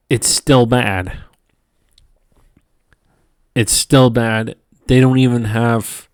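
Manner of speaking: tired halting stutter. Real, not acted. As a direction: trip over the words. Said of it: "I apologize if I'm stuttering quite a bit".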